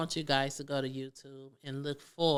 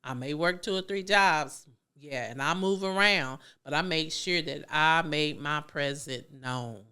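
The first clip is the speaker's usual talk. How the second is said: louder, firm announcement; telling them I'm here; 5 dB louder than usual. Retold or imitated. Parent at a game announcing she's here, raised voice. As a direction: make your presence known, loud and firm. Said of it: "I had to let them know".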